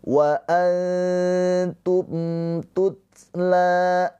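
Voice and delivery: wa antum tutla chanted slowly, the mim of antum distinct; clear mim. Shown as a demonstration. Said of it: "mim sukun bertemu dengan huruf ta".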